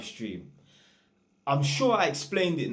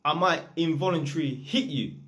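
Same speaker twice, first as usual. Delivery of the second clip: imitated plea; 5 semitones higher than usual. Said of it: "He's like".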